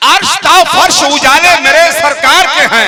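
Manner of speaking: loud, slow recited naat line; reciting a verse. Acted. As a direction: intone it slowly for the gathering. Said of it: "फिर से पढ़ता हूं".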